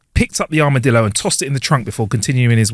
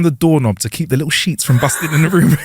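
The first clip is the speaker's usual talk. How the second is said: laughing. Acted. Punchline with laughter.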